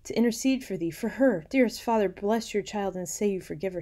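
high, loud earnest appeal; pleading daughter. A narrator's reading. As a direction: implore your father for forgiveness. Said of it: "She's asking her dad".

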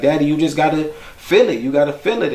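a hint of a kid gently teaching his dad to dance; young son's voice. Father voices son teaching dance.

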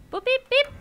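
high playful robot beeping; robot beeps. Pretend. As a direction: beep like a little droid.

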